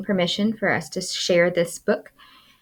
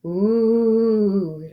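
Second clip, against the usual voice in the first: gasp; 3 semitones higher than usual. Acted. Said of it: "the crowd gasped".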